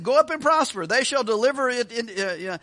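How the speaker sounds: sarcastic, overdone assurance. Retold or imitated. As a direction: read the prophecy as if mocking it. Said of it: "he says it sarcastically".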